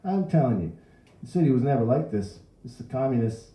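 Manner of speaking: put-on high, loud old man voice; indignant old crank; ranting old man. A narrator's reading. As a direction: declare it to the crowd with outrage. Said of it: "It was the old man again".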